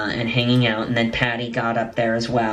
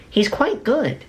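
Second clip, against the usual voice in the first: executive's remark; 11 semitones higher, slower than usual. Retold or imitated. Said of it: "he goes".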